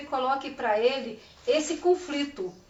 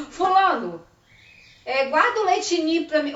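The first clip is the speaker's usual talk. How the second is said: put-on a bit higher and louder, asking the child sweetly; playful request; 4 semitones higher, 4 dB louder than usual. Shown as a demonstration. Teacher acting out asking the child for Leite Ninho. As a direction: ask the child for the milk lightly. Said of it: "Com rótulo, tá, gente".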